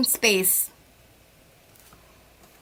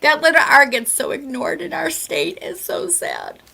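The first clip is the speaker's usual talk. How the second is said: near-whispered mock lament; mock-sad hush. Woman pretending to mourn the ignored letter R, mock-sad whisper. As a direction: drop to a hushed, pitying aside.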